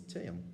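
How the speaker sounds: tean said in two syllables; two-syllable Ulster form. Shown as a demonstration. Teacher showing how Ulster speakers still say it. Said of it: "two syllables".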